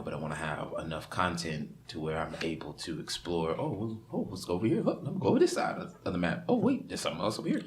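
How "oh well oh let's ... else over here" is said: excited explorer. Retold or imitated. Acting out exploring a big map.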